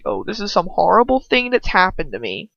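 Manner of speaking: sarcastic mock martyr voice; hammed-up mock suffering; mocking Hermione. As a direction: mimic her as a dramatic victim. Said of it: "she's trying to make it seem like".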